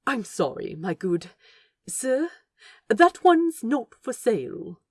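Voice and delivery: polite through a tight smile; tight politeness. Acted. The angel politely refuses the book thief, smiling tightly. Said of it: "Aziraphale smiled tightly".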